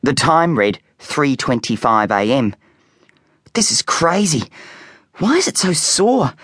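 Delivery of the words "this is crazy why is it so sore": put-on high, strained boy voice; a kid aching and fed up; boy in pain. A narrator's reading.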